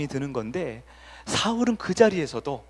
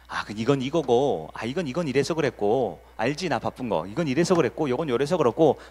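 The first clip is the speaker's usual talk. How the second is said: husband making excuses; 3 semitones lower than usual. Retold or imitated. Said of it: "변명을 하죠".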